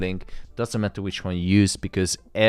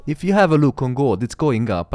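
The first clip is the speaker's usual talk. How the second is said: louder and higher, pointing at the chart; real thrill as the price moves; excited; 6 semitones higher, 6 dB louder than usual. Real, not acted. Streamer showing viewers gold climbing, excited.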